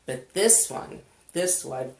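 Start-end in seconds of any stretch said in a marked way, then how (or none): 1.3-1.9 mid-yawn, words stretched. Real, not acted. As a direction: say it through a yawn. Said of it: "I'm yawning already".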